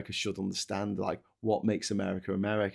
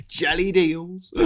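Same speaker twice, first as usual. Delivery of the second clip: laughing; 7 semitones higher, 4 dB louder, slower than usual. Real, not acted.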